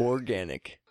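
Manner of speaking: deliberately deep, bassy single word. Shown as a demonstration. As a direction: drop into your bass register. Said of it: "bassy too".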